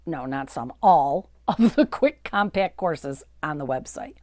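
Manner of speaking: laughing whisper. Real, not acted. Joking correction, laughing aside.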